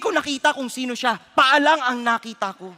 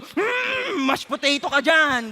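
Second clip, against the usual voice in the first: high mocking grunt then gloating line; mock stomping man; 4 semitones higher, much slower than usual. Preacher imitating the stranger crushing his foot, mock gloating. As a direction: mimic the man grinding his foot like on a cockroach.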